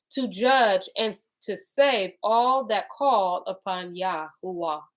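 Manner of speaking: slow, measured reading aloud; deliberate scripture recital. Acted. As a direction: read the holy text with weight. Reads scripture aloud slowly.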